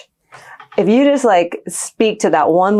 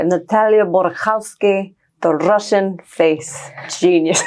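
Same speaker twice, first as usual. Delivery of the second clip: put-on heavy Russian accent; slower than usual. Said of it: "I call her with a very heavy accent".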